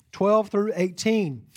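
Twelve through eighteen, slow and deliberate; slow repeat. Shown as a demonstration. Pastor repeating verse numbers for the congregation, slow. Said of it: "verses twelve through eighteen".

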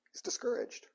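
a soft breathy whisper; whispered aside. Real, not acted. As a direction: drop to a whisper for effect.

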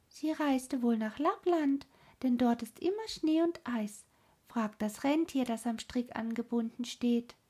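high cooing bird voice, mournful; cooing wood doves. Acted. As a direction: coo it like a wood dove telling sad news. Wood doves answer Gerda.

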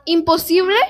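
lightly voiced roaring ogre; a hint of an offended ogre roaring. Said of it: "rugió el ogro muy ofendido".

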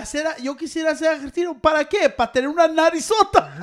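animated mock questioning, rising in pitch and volume; playful imitation in Spanish; TikTok kid imitation. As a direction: quote the kid, building to a laughing punchline. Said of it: "the kid que dijo".

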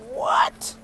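breathless stunned what; shocked disbelief. Retold or imitated. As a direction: gasp the word out in shock. Stunned reaction to gift.

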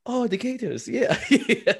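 laughing through a mock Asian accent; bad Asian accent. Joking about Japanese fans, a high mock Asian accent. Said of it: "your bad Asian accent".

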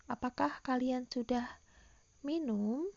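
"Apakah kalian sudah minum" with the tune rising on "minum"; rising intonation. Shown as a demonstration. Teacher showing pupils a yes-or-no question, rising intonation. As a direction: pause before "minum", then lift it as a question. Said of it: "itu intonasi naik ya".

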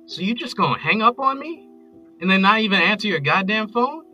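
high, loud, aggrieved voicemail tirade; wronged lover raging into a voicemail; hurt, angry ranting. Acted. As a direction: build from indignant to wounded shouting. Angry voicemail after being hung up on.

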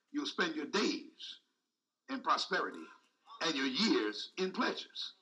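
low, hushed and slowed right down; gentle drawn-out reassurance; soft slow promise. Acted. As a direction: let the promise sink in quietly. Preacher softly reciting the promise.

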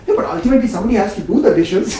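quick, laughing mock voice of Priya; tossing off a practical objection, fast; imitating Priya. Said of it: "I don't know why that voice comes".

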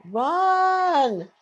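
urgent shout at screen. Real, not acted. Urging character on screen.

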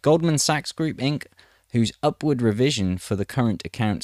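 measured news-reading delivery; article read aloud. Acted.

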